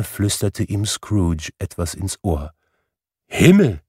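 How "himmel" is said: a stunned, high-pitched little cry; breathless gasp of surprise. A narrator's reading. Old gentleman stunned by Scrooge's generous pledge, gasping. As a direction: caught short of breath by the news. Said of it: "als ob ihm der Atem ausgeblieben wäre".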